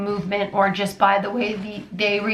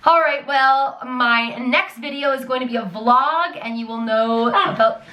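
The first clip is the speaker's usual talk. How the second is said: outro host voice; 3 semitones higher than usual. Pretend. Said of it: "I am trying to do an outro here".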